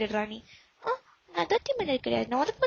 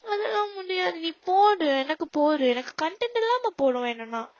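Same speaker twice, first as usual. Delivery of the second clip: whiny demand, louder on போடு; childish tantrum; 2 semitones higher, 3 dB louder than usual. Acted. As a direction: insist like a stubborn child. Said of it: "ஏன்டா குழந்தை மாதிரி". (குழந்தை போல அடம்பிடித்தல்)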